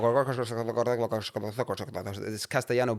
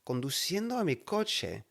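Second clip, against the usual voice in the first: slow, drawn-out, baffled repeat; mock disbelief; 4 semitones higher, 5 dB quieter, slower than usual. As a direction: stretch it out as if you can't believe it. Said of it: "And I was like".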